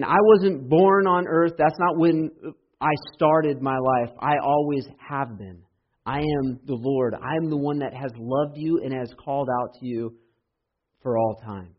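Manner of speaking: an earnest proclamation; declaring. Acted. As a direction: affirm it with conviction. Voicing Jesus declaring.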